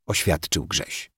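usual speaking voice

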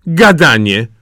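imperious princess dismissal; dismissive. A narrator's reading. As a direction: wave the objection away sharply. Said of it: "powiedziała księżniczka".

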